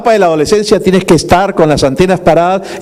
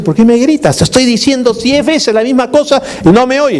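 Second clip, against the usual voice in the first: mock wife's yell; 6 semitones higher than usual. Wife to husband glued to Nintendo, mock yelling. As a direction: imitate a fed-up wife. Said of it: "escuchaba que gritaba".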